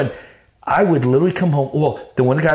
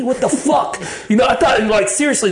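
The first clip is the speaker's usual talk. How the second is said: laughing through the words, pitched up; 9 semitones higher than usual. Real, not acted. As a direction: crack up mid-sentence at your own paranoia. Laughing while retelling basement fear.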